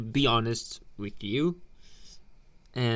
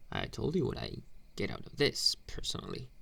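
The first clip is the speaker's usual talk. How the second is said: whisper; 5 dB quieter, faster than usual. Acted. Bully taunting in a hush.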